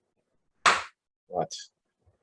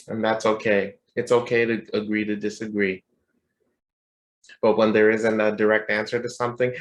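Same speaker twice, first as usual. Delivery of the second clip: usual speaking voice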